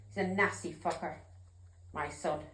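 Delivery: dropping to a hushed, low voice; choked, bitter, almost under the breath; broken-hearted mother; quiet grief. Real, not acted. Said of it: "I got a bit emotional there".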